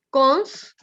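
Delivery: cons pronounced alone as one separate syllable. Shown as a demonstration. Teacher counting syllables for pupils, cons set apart. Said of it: "primera sílaba".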